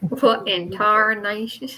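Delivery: put-on slow, drawn-out redneck accent; playful Southern redneck impression. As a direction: stretch it out in a mock redneck drawl. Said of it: "I love that redneck accent".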